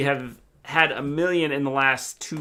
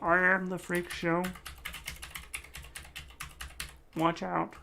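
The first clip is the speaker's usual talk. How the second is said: slow, higher creepy voice; a hint of a sideshow villain; mock menace; 4 semitones higher, 8 dB quieter, slower than usual. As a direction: threaten playfully. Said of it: "playful menace".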